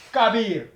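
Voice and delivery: Kabir with a tapped r, repeated evenly; Arabic word kabir. Shown as a demonstration. Teacher repeats the Arabic example for the class. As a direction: say Kabir again so learners can copy. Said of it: "on va prendre l'exemple".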